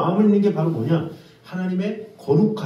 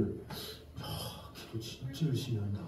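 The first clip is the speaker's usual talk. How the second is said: softer, lower awed murmur; impressed onlooker; 7 semitones lower, 16 dB quieter, slower than usual. Retold or imitated. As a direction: admire it under your breath. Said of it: "옆에 있는 사람 볼 때는".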